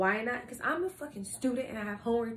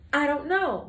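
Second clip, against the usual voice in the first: a bit louder, punching the words out; emphatic answer; 4 semitones higher, 5 dB louder than usual. Shown as a demonstration. Vlogger teasing viewers about her streak, emphatic. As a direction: slam the answer down with a shrug.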